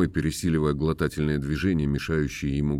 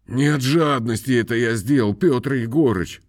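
trembling voice; 6 semitones higher, 3 dB louder than usual. A narrator's reading. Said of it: "оправдывается дрожащим голосом".

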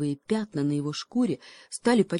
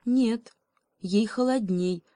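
higher bird voice; crow; 6 semitones higher, slower than usual. Acted. Crow correcting the cheetah, higher voice. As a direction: answer firmly, birdlike. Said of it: "сказал ворон".

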